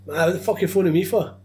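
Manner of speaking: mock-exasperated comeback; indignant. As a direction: throw it back at him quickly. Retelling comeback to rude client.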